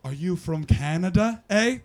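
hammed-up Canadian accent with a rising eh; teasing fake-Canadian question; mock Canadian accent. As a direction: imitate someone badly imitating a Canadian. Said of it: "all of you coming up to me and going".

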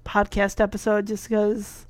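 dry-mouthed, worn-out voice; talking with a dry mouth. Real, not acted. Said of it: "My mouth is so dry".

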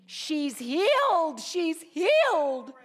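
high, loud, slow ecstatic cries; slow high jubilant shout, repeated; retold joyful screaming. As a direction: cry it out in overwhelming joy. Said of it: "she was screaming".

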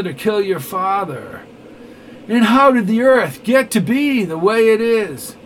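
rising to loud, high accusation; heated denunciation. Acted. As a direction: build from calm to a furious charge. Glass denounces Neville.

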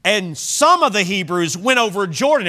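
emphatic, measured pulpit reading; scripture reading. Acted. Preacher reading scripture to the congregation, emphatic public reading. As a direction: read the verse out with drawn-out list items.

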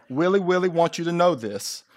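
put-on joking Asian accent, R turned to W; mock Asian accent. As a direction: play up the Asian-accent slip. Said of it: "my little Asian accent coming out".

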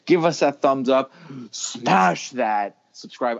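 very slow, drawn-out YouTuber plug; YouTuber catchphrase. Pretend. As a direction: savour the classic YouTuber line slowly. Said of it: "I've always wanted to say that".

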